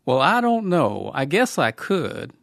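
slow, drawn-out Southern accent attempt; Southern gentleman accent. Cohost asked to do Southern gentleman, tentative Southern accent. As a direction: try a Southern gentleman drawl on the spot. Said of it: "You got, you got the Southern".

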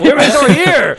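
hammed-up Cookie Monster growl; laughing Cookie Monster impression. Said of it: "we got our Cookie Monster back".

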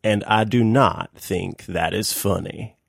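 lightly put-on deep, deadpan voice; a hint of a deep, slow-talking man; Stanley Hudson. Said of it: "kind of a deep voice and talks pretty slow".

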